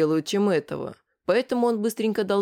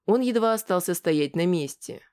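usual speaking voice

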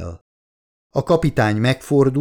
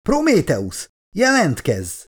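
high-pitched urgent call, not full volume; urgent radio call; 8 semitones higher, slower than usual. A narrator's reading. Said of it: "rádiójába üvöltött". (sürgető, magas hangú rádióhívás)

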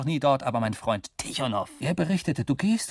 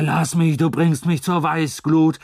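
louder, slow furious yell; enraged shout; 3 semitones higher, 6 dB louder, slower than usual. A narrator's reading. Husband screams at his drunk wife, slow and furious. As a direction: blast it at her in rage. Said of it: "schreit er".

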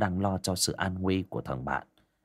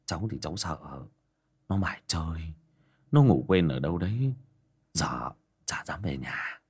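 worried; 3 semitones lower than usual. Acted. Worried villager fears the worst.

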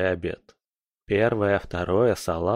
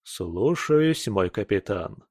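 ironic; slower than usual. Acted. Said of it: "Не смог я сдержать иронию".

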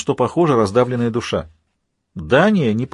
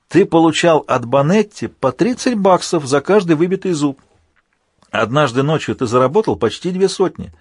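gloating accuser in a raised voice; taunting villain Alpha; 4 semitones higher than usual. Acted. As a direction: needle the hero about a shameful past.

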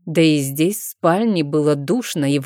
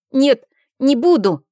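put-on high, louder child's no; shouted refusal; 8 semitones higher, 5 dB louder than usual. A narrator's reading. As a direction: stamp it out like a stubborn child.

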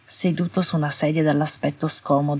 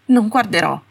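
a louder shout on the last words; 5 semitones higher, 7 dB louder than usual. Acted. Astoria shouting her refusal at Malfoy. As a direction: yell it, higher and louder. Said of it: "urlò l'ultima parte".

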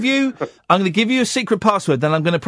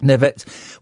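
backwards speech; 3 semitones lower than usual. Shown as a demonstration. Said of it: "I know my name".

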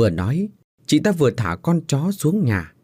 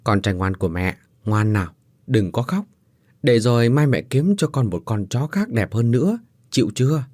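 soothing mother. Acted. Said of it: "dỗ dành".

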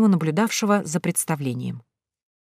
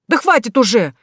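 exasperated plea; 6 semitones higher, 4 dB louder than usual. Acted. Groom pleading while chased.

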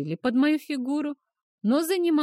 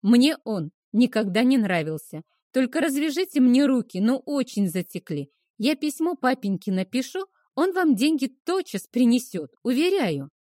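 eager sweet pleading; 2 semitones higher than usual. Acted.

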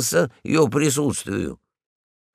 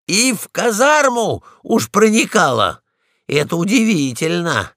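astonished; 5 semitones higher, 4 dB louder than usual. Acted. Polkan marvels.

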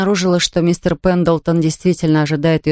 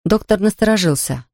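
ordinary delivery

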